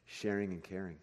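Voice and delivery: son's answer. Retold or imitated. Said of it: "And he goes".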